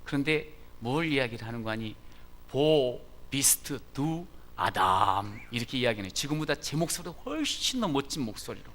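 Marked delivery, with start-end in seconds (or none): 2.5-5.4 deep teacher voice. Retold or imitated. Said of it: "목소리가 저음이었어요".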